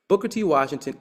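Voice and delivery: high, loud, ringing proclamation; announcing the name. Shown as a demonstration. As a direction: call the name out like a title.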